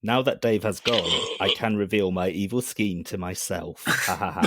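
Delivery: flat robotic villain; calm AI revealing a scheme; HAL robot voice. Acted. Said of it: "My robot voice?".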